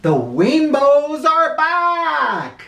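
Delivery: high, slow, gasped out in wonder; gasping. A narrator's reading. Mike gasping as the rainbows return. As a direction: breathe it out in amazed delight. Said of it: "he gasped".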